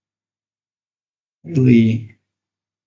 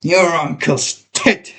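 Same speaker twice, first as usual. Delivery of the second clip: his voice; slower than usual. Acted. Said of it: "Now his voice".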